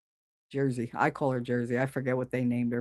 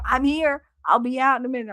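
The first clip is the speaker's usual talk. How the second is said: high, raised call through a window; 8 semitones higher than usual. Retold or imitated. Calling to her noisy chickens through the window, high and raised. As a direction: call out to reassure the hens outside. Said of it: "go by the window and go".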